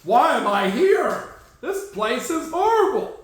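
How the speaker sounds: mock whining player; imitating the player. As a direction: whine it as the unhappy player. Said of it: "He's like".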